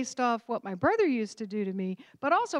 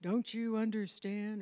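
slow, talking down, a bit quieter; condescending; 4 dB quieter, slower than usual. Retold or imitated. Husband talking down to his new wife, mildly condescending. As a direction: imitate a know-it-all husband, lightly. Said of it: "some sort of condescending thing".

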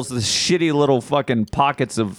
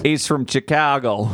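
put-on Chicago accent; slower than usual. Mimics cop's Midwestern accent.

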